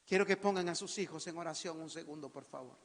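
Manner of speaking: soft, low voice sinking at phrase ends; subdued pastoral request; hushed call to prayer. Real, not acted. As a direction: quietly invite them to pray. Softly leads congregation into prayer.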